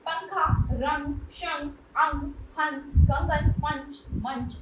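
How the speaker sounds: teacher reading anusvara words slowly, each nasal clear; teacher spells out पंखा, रंग, शंख, अंग one by one for students; slow clear examples. Shown as a demonstration. Teacher to class, slowly modelling anusvara words. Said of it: "अनुस्वार युक्त कुछ शब्द निम्नलिखित हैं".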